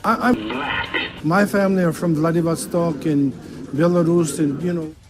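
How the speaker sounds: loud claim. Real, not acted. Seagal loudly telling the band he is black.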